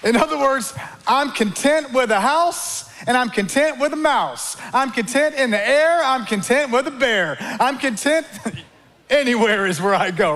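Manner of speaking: sing-song rhymes that break into laughter; playful rhyming. Acted. Preacher rhymes Paul's contentment playfully, laughing. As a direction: bounce the rhymes until you laugh.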